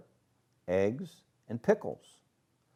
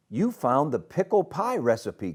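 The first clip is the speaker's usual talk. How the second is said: exclaiming; 5 semitones higher than usual. Acted. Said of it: "Grandma exclaimed".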